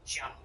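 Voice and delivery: "Janet" with an H slipped into it. Shown as a demonstration. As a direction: open "Janet" on a breath of "sh". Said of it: "like you're putting an H in it".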